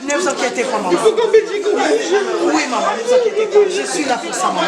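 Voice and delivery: emotional reassurance. Real, not acted. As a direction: reassure weeping people with urgency. Reassuring a wailing, distressed crowd. (réconfort ému et insistant)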